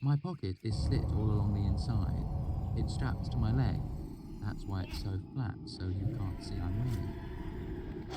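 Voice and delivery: lightly voiced young woman; Denner's voice. A narrator's reading. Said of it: "She gripped".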